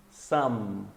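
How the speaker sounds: some closing on a hummed M; final M. Shown as a demonstration. Teacher contrasts some with sun, some ending on closed-lip M. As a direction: shut the lips at the end of some. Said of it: "Então fecha a boca".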